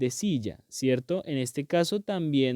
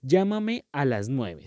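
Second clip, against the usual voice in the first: slow clear example; slower than usual. Shown as a demonstration. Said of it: "veamos los ejemplos".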